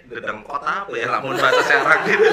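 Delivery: chuckling through the words; laughing. Real, not acted. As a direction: laugh while teasing. Teasing guest about his title.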